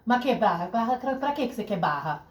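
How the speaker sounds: put-on Italian-accented father questioning; thick Italian accent. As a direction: imitate a puzzled Italian dad. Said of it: "Com sontacão italiano".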